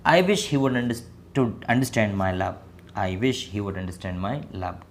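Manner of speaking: very slow, word by word English; slow model sentence. Shown as a demonstration. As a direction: spell it out slowly for learners. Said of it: "यहाँ ये बोल रही मोहब्बत को समझ लेता".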